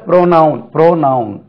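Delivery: ப்ரோனவுன் with a full long "pro"; demonstrated pronunciation. Shown as a demonstration. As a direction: say ப்ரோனவுன் clearly as "PRO-noun". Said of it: "இதுக்கு உச்சரிப்பு பாருங்க".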